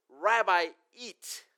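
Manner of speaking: a light, bossy order to the teacher; mildly demanding disciples; mock demanding. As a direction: push the teacher to eat, half-hearted. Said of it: "They're demanding that he eat".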